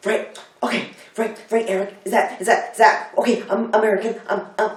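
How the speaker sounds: put-on high-pitched caricature of an American accent; mock American accent. Bookstore coworker impersonating her American colleague, mock American accent. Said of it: "do impersonations of me".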